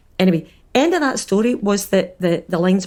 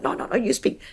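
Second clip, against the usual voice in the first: hushed refusal; 3 semitones higher, 6 dB quieter than usual. Retold or imitated. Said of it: "he was like".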